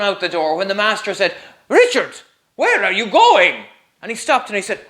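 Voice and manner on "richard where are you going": louder, higher call after him. Acted. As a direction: call him back from across the room. Master calls to fleeing Richard.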